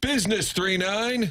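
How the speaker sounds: acted, very high, shrill screaming. Recounting an opposing team's dad at a game, imitating a screaming dad. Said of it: "He's screaming their number".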